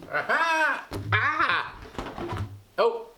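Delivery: high startled cries; teacher reacts to the balloon; excited exclamations. Real, not acted. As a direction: gasp with delight.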